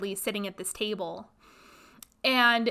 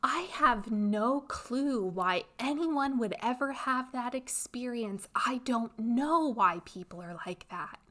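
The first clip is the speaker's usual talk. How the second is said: mock fawning, innocent and a bit softer; 2 semitones higher, 5 dB quieter than usual. Friend playing dumb to the top coach, lightly mock fawning. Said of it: "she starts fawning and is like".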